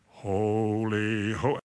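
soft, low reverent holy; reverent hush. Retold or imitated. Preacher mimics quiet old church, hushed. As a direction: breathe it like a hushed prayer.

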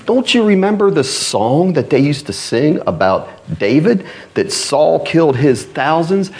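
high, scornful, drawn-out questioning; mocking Philistine lords. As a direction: scold Achish like he's a fool. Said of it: "they're like".

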